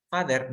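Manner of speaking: "Father" said as "fader"; a plain D replacing the th of "Father"; wrong D pronunciation. Shown as a demonstration. Teacher warns it is not a D, wrong D pronunciation. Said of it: "Father no es una D".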